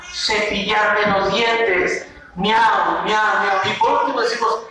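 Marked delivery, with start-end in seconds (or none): 2.4-3.6 sing-song cat meows; playful cat meowing. Shown as a demonstration. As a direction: meow meow like a cat. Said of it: "decimos como gato".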